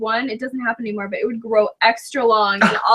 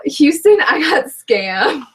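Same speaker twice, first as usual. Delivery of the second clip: mock lament; 4 semitones higher, 5 dB louder, much slower than usual. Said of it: "mock complaint".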